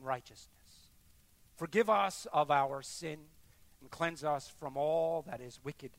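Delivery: earnest spoken prayer. Real, not acted. Pastor praying for the congregation, earnest and humble. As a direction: lead them humbly in prayer.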